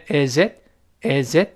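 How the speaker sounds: "is it" joined as one word, i-zit; "is it" linked smoothly, i-zit; linked reading. Shown as a demonstration. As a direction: say "is it" with z running into the vowel. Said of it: "连读变成".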